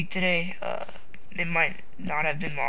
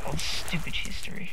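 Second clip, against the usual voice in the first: whispered aside. Real, not acted. Aside about school subjects.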